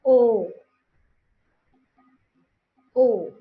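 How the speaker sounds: O as one long pure vowel, no glide; loud O in mother-tongue fashion. Shown as a demonstration. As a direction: say O as a single round vowel, loudly. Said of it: "in our mother tongue influence pronounced as".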